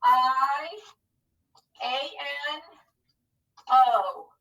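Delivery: "P I A N O" letter by letter with pauses; name each letter of "P I A N O" separately; spelled out. Shown as a demonstration. Teacher spelling piano with pupils, letter by letter. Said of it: "let's name those letters".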